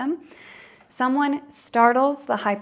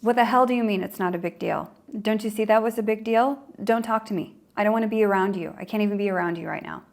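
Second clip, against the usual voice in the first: mock rage; faster than usual. Startled person turning on the teaser, fast mock rage. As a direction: snap back in a rush of anger. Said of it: "It can turn into rage".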